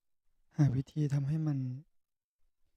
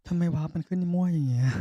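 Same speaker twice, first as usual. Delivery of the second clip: higher, louder baffled complaint; exasperated outburst; 4 semitones higher, 5 dB louder than usual. Real, not acted. Streamer baffled by the game's random warp, blurting loudly. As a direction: blurt it out, puzzled and annoyed.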